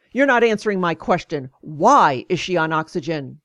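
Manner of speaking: mock snappish doctor, hitting WHY; mildly irritated imitation, leaning on why; snapping. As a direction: snap the question back, retold. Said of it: "He snapped".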